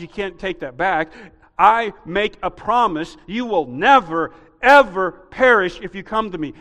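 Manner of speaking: full-force preaching. Acted. Preaching promise.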